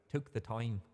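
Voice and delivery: mock Irish vowel on "time"; Irish accent. Shown as a demonstration. Streamer teasing own slip, mock Irish accent. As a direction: echo your slip in a light Irish accent. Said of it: "that sounded very Irish".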